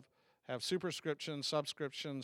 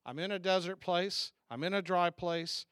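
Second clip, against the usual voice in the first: crying out; 3 semitones higher, 4 dB louder than usual. Acted. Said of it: "And so David's crying out".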